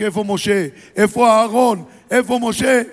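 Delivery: Pharaoh shouting. Acted. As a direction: call frantically through the streets. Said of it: "ולצעוק". (פרעה צועק ברחובות)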